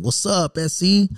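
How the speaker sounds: Cholo accent. Shown as a demonstration. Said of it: "in a Cholo accent".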